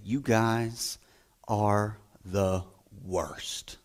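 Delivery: low, soft, mock-dismissive voice to the boys; deadpan put-down of the boys; mock teacher scolding. Teacher tells the boys class they are the worst, low and soft. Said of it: "they would say".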